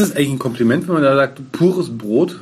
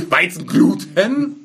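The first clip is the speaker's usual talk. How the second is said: drawn out; 4 semitones higher, much slower than usual. Shown as a demonstration. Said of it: "die fett gedruckt sind, schreien".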